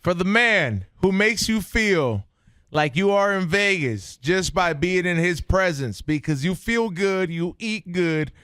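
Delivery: announcer voice. Acted. Hype introduction.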